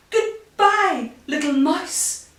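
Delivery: high, loud, panicky farewell; frightened goodbye. A narrator's reading. Fox flees from the Gruffalo, high alarmed goodbye. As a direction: call it out high and hurried to get away.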